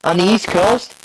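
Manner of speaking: garbled metallic call audio; choppy robotic connection. Real, not acted. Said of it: "if he can hear me in my robot voice".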